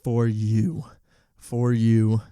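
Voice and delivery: mock-dramatic insistence; emphatic. Shown as a demonstration. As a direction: hammer it home to the listeners. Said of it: "Like I said, it is for you".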